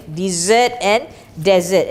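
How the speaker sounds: "dessert" with a long ee, then "desert" with short e; pronunciation contrast. Shown as a demonstration. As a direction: set "dessert" against "desert". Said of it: "so pronunciation".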